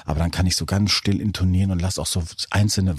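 ordinary delivery

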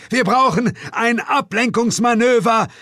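the hero bellows back to Suko in battle; roaring back. Acted. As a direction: bellow it over the chaos. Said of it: "brüllte ich".

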